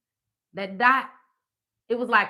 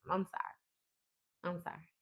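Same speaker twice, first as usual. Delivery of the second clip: put-on voice; 11 dB quieter, slower than usual. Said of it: "Back to normal".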